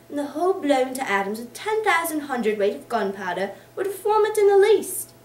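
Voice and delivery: energetic booming tirade; blustering rant. Acted. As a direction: thunder out the reform, peaking loud. Boythorn rants about chancery.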